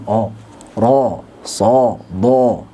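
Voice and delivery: "ro, so, do" with the jaw dropped and the lips slack, not pushed out; like someone gaping blankly; a dazed open O on "ro, so, do". Shown as a demonstration. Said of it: "Seperti orang bengong begini".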